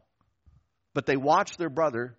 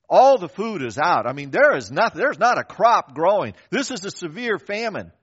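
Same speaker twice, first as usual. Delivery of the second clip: emphatic preaching; 3 semitones higher, 7 dB louder than usual. Acted. Preaching the famine.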